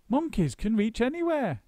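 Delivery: high monkey boast; high boastful monkey; playful shout. A narrator's reading. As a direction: brush off their doubts. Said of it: "shouted Mugglewump".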